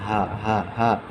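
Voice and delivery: হা with air released through the mouth; airy ha. Shown as a demonstration. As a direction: let breath flow out on হা. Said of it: "মুখ দিয়ে বাতাস বের হবে". (মুখ দিয়ে বাতাস ছেড়ে হা)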